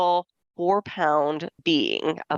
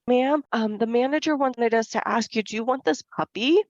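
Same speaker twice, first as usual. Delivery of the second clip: raised, polite "ma'am"; a lightly voiced polite store clerk; polite young clerk; 6 semitones higher than usual. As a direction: ask the shopper sweetly, a touch higher. Clerks politely ask the mom.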